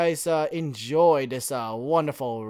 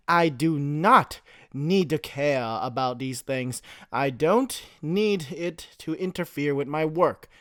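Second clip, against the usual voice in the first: monotone voice. Acted. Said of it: "in his monotone voice".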